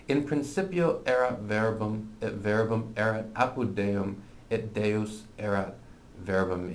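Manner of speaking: "In principio erat verbum" read as Latin; Latin pronunciation. Shown as a demonstration. Teacher reads John one one to learners, Latin pronunciation. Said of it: "this is just the pronunciation I use".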